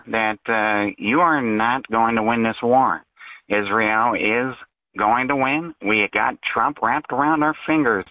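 lightly put-on caller voice, a hint of a character; fake caller voice. Caller on a talk show in a lightly faked voice. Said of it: "It's obvious you're doing a fake voice".

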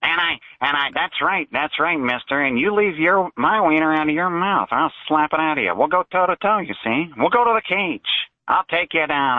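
mild cartoonish tough-guy voice, lightly put on; a hint of a cartoon tough guy; Looney Tunes character. Caller to the host, a light cartoon tough-guy threat. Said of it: "you sound like a, a Looney Tunes character".

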